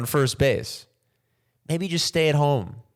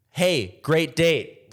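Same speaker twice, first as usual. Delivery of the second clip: slow awkward goodbye; much slower than usual. Retold or imitated. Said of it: "what do you do?".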